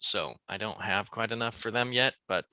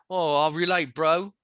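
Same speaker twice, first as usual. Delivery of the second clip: mock Cockney; 4 semitones higher than usual.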